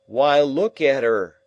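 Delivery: high, loud and slow, staring at a ghost; terrified cry. Acted. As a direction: cry out at what only he can see. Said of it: "he cries out".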